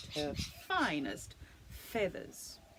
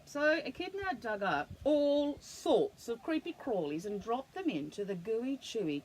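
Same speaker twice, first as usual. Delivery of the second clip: put-on lively storybook read to a child; animated read-aloud for a little one; reading to children. A narrator's reading. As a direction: tell it like a bedtime picture book. Reads picture book to child.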